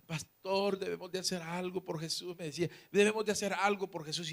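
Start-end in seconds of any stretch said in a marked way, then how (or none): 0.1-2.4 lightly voiced pleading child, slightly raised pitch; a hint of a tearful child's plea; imitating tearful child. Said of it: "Y el niño llorando". 2.9-4.3 lightly voiced pleading child, slightly raised pitch; a hint of a tearful child's plea; imitating tearful child. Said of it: "el niño llorando".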